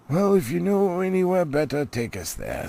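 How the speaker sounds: testy wizard snapping back; a cross old wizard, short-tempered; grumpy Gandalf. Acted. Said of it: "who was feeling very grumpy".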